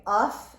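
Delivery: short uff sound; teacher modelling the uff sound. Shown as a demonstration. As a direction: say uff crisply. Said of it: "it can say".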